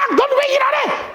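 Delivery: very high, shrill-pitched nagging complaint; hammed-up sibling scolding; scolding sister. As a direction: demand why she isn't working. Martha scolds lazy Mary.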